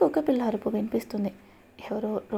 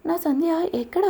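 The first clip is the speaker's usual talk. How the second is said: higher, louder angry demand; 6 semitones higher, 3 dB louder than usual. A narrator's reading. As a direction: demand it across the station. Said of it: "అని గట్టిగా అడుగుతాడు".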